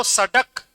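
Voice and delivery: सड़क with a hard retroflex ḍ stop; no flap in सड़क, a plain ḍ. Shown as a demonstration. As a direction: say सड़क as "sa-ḍak", tongue stopping firmly. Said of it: "उच्चारण में फर्क आया".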